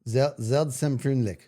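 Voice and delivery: Seltsam with a Z, Freundlich with the N; careful German name; German pronunciation attempt. Shown as a demonstration. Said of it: "I feel like I just said it right".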